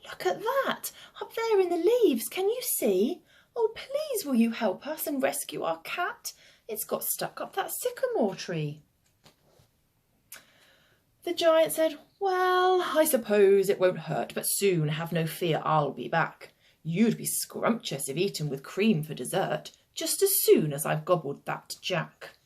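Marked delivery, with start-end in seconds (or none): 0.1-8.8 put-on high-pitched children calling for help; children yelling. A narrator's reading. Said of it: "they yelled". 12.2-22.4 reluctant hungry giant. Acted.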